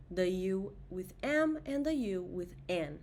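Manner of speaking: ordinary talk, nothing marked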